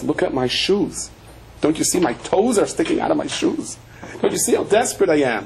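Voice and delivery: mildly acted desperate appeal, rising in pitch; retold tearful plea. Poor man begging a rich miser, mock-tearful pleading. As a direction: plead in a lightly imitated cry. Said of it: "one person came and he's crying".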